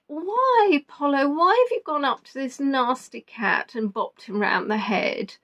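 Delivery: pet talk. Retold or imitated. Talking to her cat.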